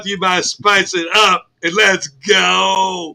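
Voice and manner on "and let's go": drawn-out slow shout to kick things off; slow hollered let's go; hype call. Acted. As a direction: stretch it out like a hype man. Hype call to start segment.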